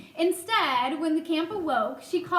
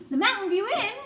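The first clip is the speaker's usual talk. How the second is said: high, louder echo of surprise; surprised; 7 semitones higher, 5 dB louder, faster than usual. A narrator's reading. Boy hears where the mouse lived, surprised. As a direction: repeat it back in surprise. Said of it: "Garf was surprised".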